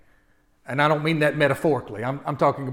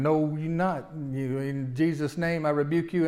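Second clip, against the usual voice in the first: preacher rebuke; slower than usual. Retold or imitated. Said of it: "doing the preacher thing".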